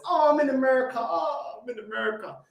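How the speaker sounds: lightly mocking moan; mocking imitation. Mocks the caller's excuse.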